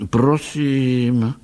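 ordinary delivery, nothing marked

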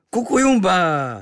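hlasitě, výš a pomalu; vyřvi to divoce; zaječení. Acted. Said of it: "zaječel". (domorodec nečekaně zaječí)

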